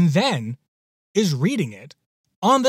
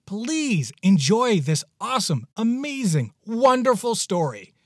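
gushing hype; 7 semitones higher than usual. Real, not acted. Host hypes the story.

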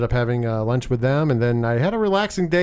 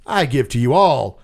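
announcer intro; 3 semitones higher than usual. Acted. Long hype introduction of co-host.

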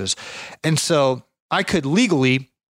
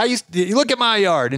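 imitating old man; 8 semitones higher than usual. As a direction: play the tired old neighbour. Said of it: "And he's like".

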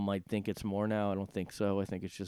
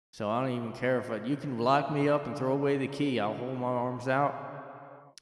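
put-on southern accent; 2 semitones higher than usual. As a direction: play a rowdy fan in a southern accent. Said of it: "I'm basically doing a southern accent".

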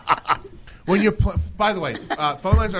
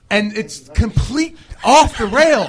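laughing; slower than usual. Real, not acted. Laughing at chaos.

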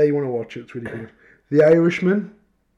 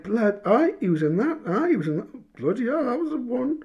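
excited recognition; 8 semitones higher, 3 dB quieter than usual. Retold or imitated. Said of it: "I'm like".

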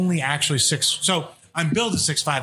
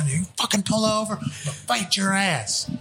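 high-pitched mock accent, challenging someone to fight; Vega in a put-on accent; 5 semitones higher, slower than usual. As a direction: put on an exaggerated accent, higher and drawn out at the end. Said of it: "I gave Vega that accent".

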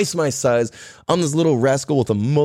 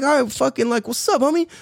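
higher-pitched cocky challenge; squaring up; 10 semitones higher than usual. Retold or imitated. Fourth grader getting ready to fight, cocky challenge. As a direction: call him out, pitched up. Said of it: "I fucking get ready".

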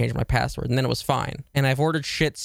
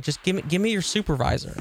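full Karen; 5 semitones higher than usual. Retold or imitated. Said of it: "I'm going full Karen".

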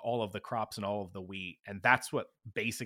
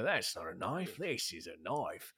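Crocodile Dundee line; 2 semitones lower, 4 dB quieter than usual. Retold or imitated. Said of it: "You just gotta go straight to the".

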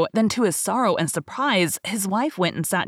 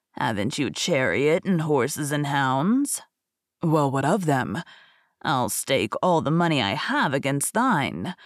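slow, lower tempting beggar; lightly voiced crafty old beggar; sly old beggar; 4 semitones lower than usual.

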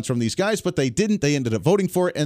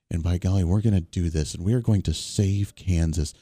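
lower, stern, put-on voice of the Kansas governor; mocking the governor; 9 semitones lower than usual. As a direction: lampoon her as a stern, preachy scold. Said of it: "But she talks like this".

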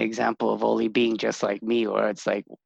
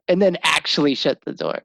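laughing. Real, not acted. Repeats line, laughing.

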